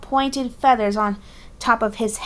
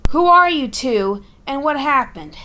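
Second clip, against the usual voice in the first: put-on weary Boston accent questions; tired Boston bird asking; 4 semitones higher, 3 dB louder than usual. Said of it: "Boston accent".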